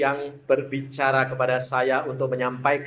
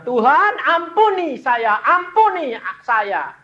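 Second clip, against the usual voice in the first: pleading prayer; 12 semitones higher, 10 dB louder than usual. Retold or imitated. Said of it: "Dia bilang".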